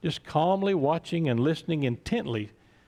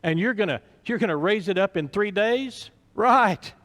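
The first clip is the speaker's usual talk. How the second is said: mocking scoff; 4 semitones higher than usual. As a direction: sneer at the claim. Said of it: "laughing and joking".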